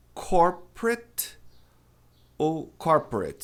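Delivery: corporate slowly, ending it. Shown as a demonstration. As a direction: end corporate in it. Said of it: "o A T E tem som de it". (corporate terminando em it)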